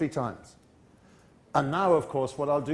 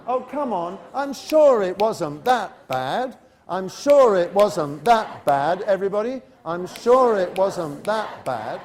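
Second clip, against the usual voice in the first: slow, louder, reassuring coaxing; sympathetic; 4 dB louder, slower than usual. Shown as a demonstration. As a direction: comfort a child who failed an exam. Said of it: "you say in that kind of a".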